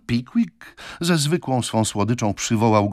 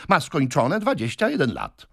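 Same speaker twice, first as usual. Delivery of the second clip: insistent assertion; 8 semitones higher than usual. A narrator's reading. Suitor states the lady's age.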